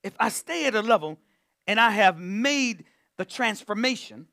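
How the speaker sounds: slowed right down, each phrase set apart; drawn-out emphatic preaching; slow and deliberate. Shown as a demonstration. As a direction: lay it out slowly so it sinks in. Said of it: "I wanna say it like this".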